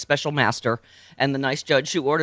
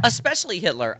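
mocking sarcastic; 4 semitones higher than usual. Mock repeat of cohost claim.

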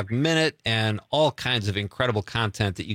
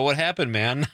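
lightly imitated surfer; 3 semitones higher than usual. Host teasing the guest about his surfer sound, lightly imitated surfer. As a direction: lightly mimic a laid-back surfer. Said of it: "you sounded like a surfer".

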